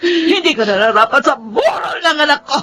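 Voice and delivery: tearful anger. Acted. Mother drives woman from wake.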